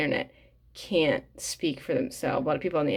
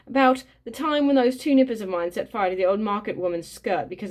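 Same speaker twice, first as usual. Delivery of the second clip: louder, higher, eager gossiping dad; a boastful neighbour bragging about his children, louder and higher; chatty proud father; 4 semitones higher, 4 dB louder than usual. Acted. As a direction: boast about the kids with relish. Reads the neighbour's chatty speech.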